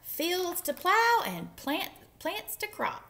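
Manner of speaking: high, loud drawn-out holler; yelling duck. A narrator's reading. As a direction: keep calling it out high. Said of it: "yelled Duck".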